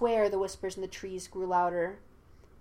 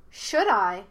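put-on louder childlike taunt; 6 dB louder than usual. A narrator's reading. Hidden spirit taunts Yue, childlike. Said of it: "high-pitched like a child".

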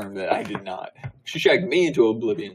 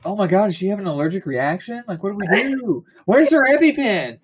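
high, hammed-up alarmed bystander; mock panic; 7 semitones higher than usual. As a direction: panic with pitch climbing to a squeal. Acts alarmed bystanders at crying fit.

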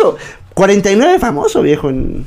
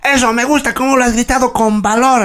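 lightly imitated approving sergeant, pitched up; 6 semitones higher than usual. Sergeant approving the recruit's brave shout, imitated high military voice. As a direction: praise a recruit in a raised parade voice. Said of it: "mi sargento".

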